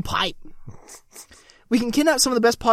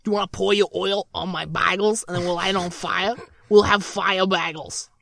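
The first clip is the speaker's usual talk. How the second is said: put-on New York accent; 3 semitones lower, 3 dB quieter than usual. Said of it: "that voice is getting on my nerves".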